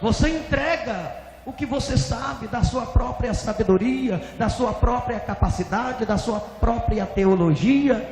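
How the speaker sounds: high, insistent listing; divine rebuke. Retold or imitated. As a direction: hammer each accusation home. God rebukes the pastor.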